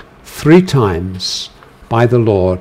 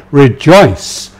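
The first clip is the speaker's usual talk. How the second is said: raised, louder exhortation; emphatic command; 3 semitones higher, 5 dB louder than usual. Shown as a demonstration. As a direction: urge joy despite his short days. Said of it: "emphatic imperative statement".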